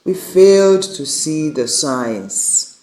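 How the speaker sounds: loud, heavy repeated confession; anguished admission. Acted. Grieving mother confessing to the family, loud and anguished. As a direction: cry out the guilt, each failed landing hard.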